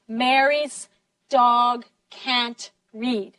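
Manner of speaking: slow, separate beats on "Mary's", "dog", "can't", "read"; every word stressed. Shown as a demonstration. Teacher has class listen for stressed words, every word stressed. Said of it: "All the words are stressed".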